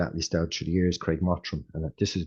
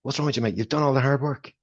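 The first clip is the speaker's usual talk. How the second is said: high and loud, breezy and dismissive; jolly the tense runner along; brash pep talk; 9 semitones higher, 4 dB louder than usual. Retold or imitated. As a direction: coach telling an anxious athlete to relax, high and loud. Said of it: "he was like".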